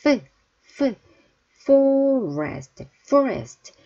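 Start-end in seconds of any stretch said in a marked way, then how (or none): 1.6-3.7 F sound demo; clear F. Shown as a demonstration. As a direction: lean into the F of forest. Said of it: "F는 위에 이빨이 아래 입술에 닿아야".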